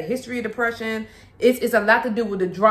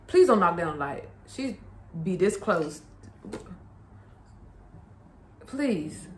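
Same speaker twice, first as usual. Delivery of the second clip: hushed plea, much quieter; pleading softly; 3 semitones lower, 7 dB quieter than usual. Real, not acted. Mother quietly pleading with her toddler near the light.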